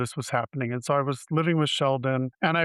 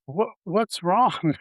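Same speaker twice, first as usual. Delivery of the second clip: slow, higher-pitched concerned question; concerned doctor; 5 semitones higher, much slower than usual. Retold or imitated. Doctor to tearful patient, retold with slow concern. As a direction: gently draw out the question, pitched up.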